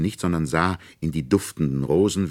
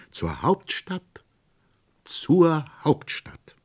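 rising, drawn-out call, louder on the repeat; excited announcement growing louder; eager call; 10 semitones higher, 4 dB louder, much slower than usual. Acted. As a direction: call out gladly, slow and high. Nutcracker calls out to Marie.

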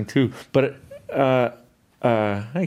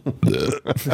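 fizzy drink burp; 3 semitones higher than usual. Real, not acted. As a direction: let out a big burp. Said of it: "Wow, very good".

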